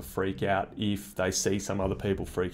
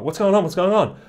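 high, loud, urgent questioning; mock panic; 8 semitones higher, 4 dB louder than usual. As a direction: imitate someone frantically asking while fleeing. Acting out panicked runner asking.

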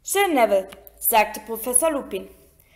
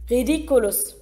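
"Ridiculus" as a light group echo, not quite as crisp as the teacher's; class in unison. Acted. Class echoes the teacher's "Ridiculus" in one voice. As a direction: repeat "Ridiculus" like pupils chanting back. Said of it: "sagte die Klasse wie aus einem Mund".

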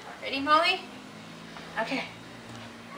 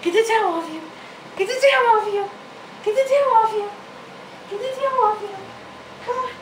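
loud, high cheering at the dog; loud urging; 6 semitones higher, 4 dB louder, much faster than usual. Real, not acted. Owner cheering her dog under the towel, loud high urging. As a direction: egg the dog on, calling it louder each time.

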